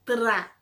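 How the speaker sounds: "Tra" loud, with a tapped R; tongue-flipped R. Shown as a demonstration. Teacher repeating the folded-tongue sound, loud "Tra" with tapped R. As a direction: fold the tongue quickly on the R in "Tra". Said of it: "Tá dobrando a linguinha".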